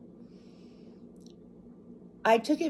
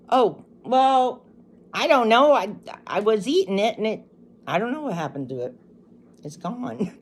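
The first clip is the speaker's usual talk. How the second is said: flustered excuse; 3 semitones higher, 5 dB louder than usual. Retold or imitated. Her own flustered excuse.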